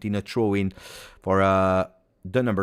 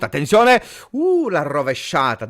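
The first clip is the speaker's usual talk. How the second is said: high, loud "Attenzione" into a gasp; excited alarm; 6 semitones higher, 5 dB louder than usual. Real, not acted. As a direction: warn everyone the chance is coming. Bicycle kick attempt on goal.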